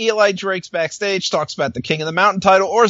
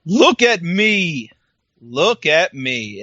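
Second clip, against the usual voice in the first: mock demand; much slower than usual. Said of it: "He basically says".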